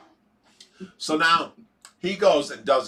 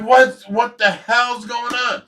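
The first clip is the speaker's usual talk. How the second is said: retold alarm; 7 semitones higher, 4 dB louder, slower than usual. Retelling reaction to crash.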